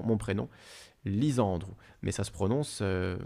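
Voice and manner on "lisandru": "Lisandre" said Corsican-style, stressed on SAN, light final -dru; Corsican pronunciation. Shown as a demonstration. Host showing the real first name, "Lisandre" in Corsican pronunciation. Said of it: "avec un accent tonique sur l'avant-dernière syllabe".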